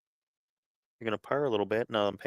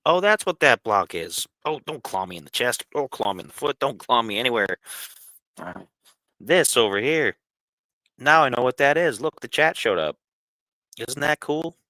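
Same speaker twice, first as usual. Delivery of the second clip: excited; 4 semitones higher, 7 dB louder than usual. Real, not acted. Discovers chat, excited.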